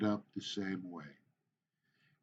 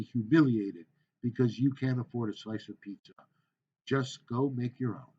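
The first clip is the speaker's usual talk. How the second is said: demo speech. Shown as a demonstration. Teacher performing a sample speech for students, formal. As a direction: present it like a class speech.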